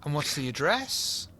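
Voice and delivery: Cockney copper asking for details; Cockney policeman. Acted. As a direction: put on a Cockney officer's voice. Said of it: "that accent when I do a policeman".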